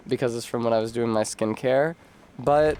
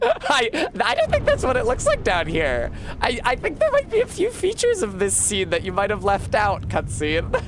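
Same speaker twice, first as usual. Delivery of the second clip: bimbo voice; 11 semitones higher than usual. Acted. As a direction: purr it like a ditzy bombshell. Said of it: "I'll do a bimbo voice for nine minutes".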